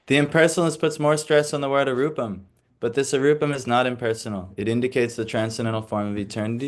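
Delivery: formal read-aloud lecture voice; reading the commentary. Acted. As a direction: read the purport to the class. Reads commentary from the book.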